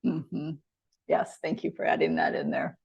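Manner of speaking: soft whispered aside; whispering. Real, not acted. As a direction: whisper it under your breath. Quiet aside during the exercise.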